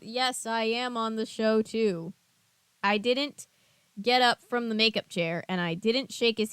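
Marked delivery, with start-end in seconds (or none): 0.0-2.1 slow, even robot voice. Acted. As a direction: talk like a stiff robot. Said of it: "trying to sound like a robot".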